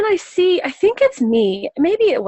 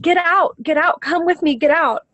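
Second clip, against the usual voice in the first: higher-pitched retold call, easing down at the end; 5 semitones higher than usual. Calling to people in the boat, mildly raised call. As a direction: call people over to follow you, without shouting. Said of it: "I was just calling to these people".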